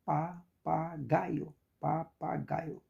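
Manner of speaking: "papagaio" broken into syllables, weight on gai; stress on penultimate syllable. Shown as a demonstration. Teacher asking students which syllable is strongest, stress on penultimate syllable. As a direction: measure out "papagaio", leaning on gai. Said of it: "Qual a mais forte?".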